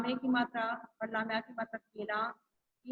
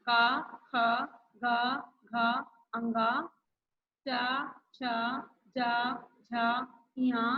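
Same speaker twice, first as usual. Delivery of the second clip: a teacher's class recitation, letter by letter; reciting the consonants. Shown as a demonstration. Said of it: "व्यंजन तैंतीस होते हैं".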